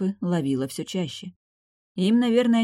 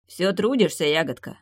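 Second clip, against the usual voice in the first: teasing smirk; 2 semitones higher than usual. Acted. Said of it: "с привычной усмешкой".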